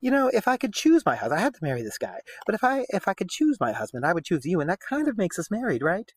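a hint of a flirty noblewoman; lightly voiced scheming lady. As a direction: lightly play the wife angling for him. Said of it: "So she's like".

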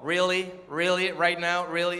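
low, slow American customs officer. Retold or imitated. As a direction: question him in deadpan, drawn-out English. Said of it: "el de Customs me dijo así como".

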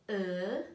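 "L-A" said as separate drawn-out sounds; sounding out. Shown as a demonstration. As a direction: sound out "L-A" piece by piece. Teacher sounds out the word.

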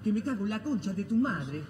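low hammed-up Argentine accent. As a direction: do a cheeky Argentine accent, rough talk. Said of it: "hable usted en argentino".

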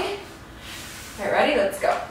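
ordinary delivery

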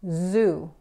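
"zoo" with a buzzing voiced Z; English Z. Shown as a demonstration. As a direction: buzz the Z in "zoo" with a slight vibration. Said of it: "Por ejemplo". ("zoo" con Z sonora que vibra)

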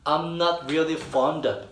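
very slow, I'm not really fond of joined up; slow linked demo. Shown as a demonstration. Teacher models the whole linked line slowly for students. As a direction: draw it out, linking every word. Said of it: "다 이어줍니다".

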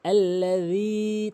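"alla-dheee", final vowel held; slow আল্লাযী with th-like z; correct dhal. Shown as a demonstration. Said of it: "তিন আলিফ টানবেন".

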